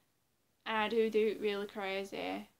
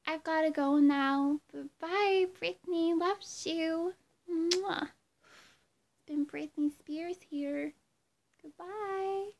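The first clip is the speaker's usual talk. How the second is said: higher, breathy-free pop star goodbye blowing a kiss; pop star impression; 6 semitones higher, 5 dB louder, slower than usual. Lightly played pop singer blowing fans a kiss goodbye. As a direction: say bye like a starlet to her fans. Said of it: "that was my impression of a pop singer".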